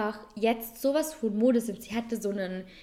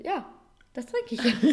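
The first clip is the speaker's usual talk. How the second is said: louder, higher, stressing trinke; emphatic retort; 4 semitones higher, 5 dB louder than usual. Retold or imitated. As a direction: insist on it, punching trinke. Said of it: "Ich so".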